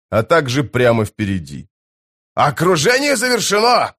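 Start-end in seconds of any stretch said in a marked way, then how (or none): 2.3-3.9 high-pitched cry of alarm to the troops; excited shout. A narrator's reading. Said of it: "закричал Пормкваль". (возбуждённый крик)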